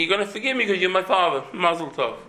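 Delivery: scornful quick "Mazel tov" to a forgiveness you don't want; dismissive mock. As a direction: toss off "You're gonna forgive me" as if it's cheap and automatic. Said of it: "I'm saying".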